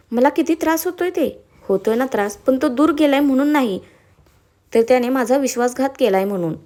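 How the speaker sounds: understated angry confrontation; a touch of fury, firmly argued; indignant. Acted. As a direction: push back at him with contained anger. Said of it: "दीक्षा संतापात म्हणाली".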